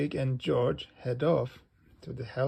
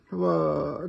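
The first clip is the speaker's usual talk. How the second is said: mock wail; 3 semitones higher, 4 dB louder than usual. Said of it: "cries George".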